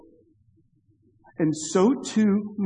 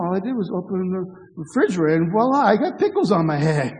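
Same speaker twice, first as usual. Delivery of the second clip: put-on childish excuse. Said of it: "something a three-year-old would say".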